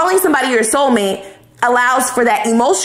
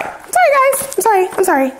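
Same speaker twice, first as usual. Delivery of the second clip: mock apology; 10 semitones higher, faster than usual. Real, not acted. Apologizing after swearing.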